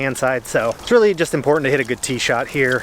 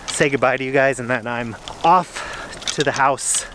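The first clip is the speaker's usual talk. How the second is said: talking out of breath while walking uphill; winded from pushing the cart. Real, not acted. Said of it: "the reason why I'm out of breath".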